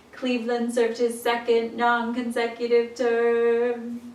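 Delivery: flat monotone line. Shown as a demonstration. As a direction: say it in one flat pitch. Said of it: "in kind of a monotone way".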